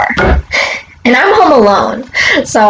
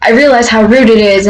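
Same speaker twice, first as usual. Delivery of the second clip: imitated stammer on the first word; stuttering neighbor. Retelling the neighbor's apology for being rude, imitated stutter. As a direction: lightly imitate a halting, stumbling apology. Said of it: "he's, like, stuttering".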